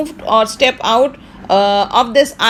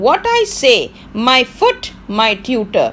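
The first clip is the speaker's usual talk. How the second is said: stern Prospero. Acted. Teacher reads angry Prospero line.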